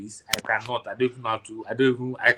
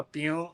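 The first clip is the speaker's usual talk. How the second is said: a softer imitated pew; softer pew sound; 3 semitones higher, 6 dB quieter than usual. Friend showing the anime sound again, softer pew. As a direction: breathe out a small zap noise. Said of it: "they use that sound now".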